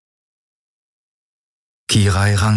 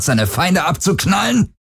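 taunting shout; 11 semitones higher than usual. Acted. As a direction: jeer it at him. Taunting the boy, voice rising. (höhnischer Ruf)

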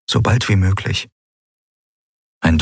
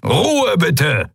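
bellowed command; 11 semitones higher than usual. Acted. Admiral calling the officers to order, bellowing. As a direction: demand silence from the room. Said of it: "brüllte der Skria-Admiral".

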